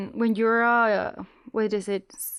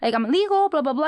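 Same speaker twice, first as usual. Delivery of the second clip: eager explaining; 4 semitones higher, 3 dB louder than usual. Retold or imitated. Herself pleading legal status.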